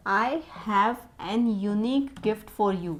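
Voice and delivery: very slow, every word set apart; slow dictation reading. Shown as a demonstration. Teacher reads the next faulty sentence to the class, very slow. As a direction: read the next error sentence out at a crawl. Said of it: "next है".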